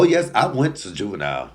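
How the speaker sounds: usual speaking voice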